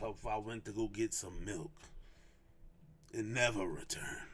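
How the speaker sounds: low whispered "and never return"; whispered aside. Acted. Father admitting a tempting thought, hushed whisper. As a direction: whisper it like a guilty confession. Dramatic repeated punchline.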